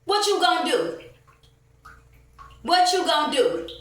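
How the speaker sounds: high, loud repeated challenge; defiant shout. Real, not acted. Ranting woman shouting her dare at the store staff. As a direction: shout it back at them, daring them.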